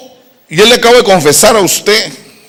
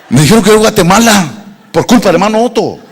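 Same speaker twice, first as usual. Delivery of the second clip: laughing; faster than usual. Retold or imitated. Retold reply, laughing.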